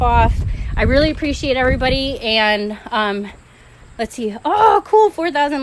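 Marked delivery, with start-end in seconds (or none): 4.4-5.6 surprised. Real, not acted. Spots like count on live.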